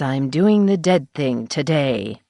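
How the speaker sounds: husky and slow. Acted. Janet on the phone to her friend, husky and slow. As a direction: let the words come out husky, unhurried. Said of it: "she said in her husky voice".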